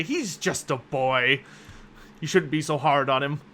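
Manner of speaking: disappointed pout. Acted. Anders gently chiding the player about the boy. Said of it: "slightly disappointed pout look".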